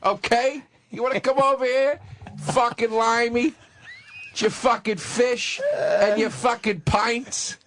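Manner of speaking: slow, jeering tirade at a limey; slow mocking rant against the English; mock angry rant. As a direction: sneer it out slowly. Ranting at limeys.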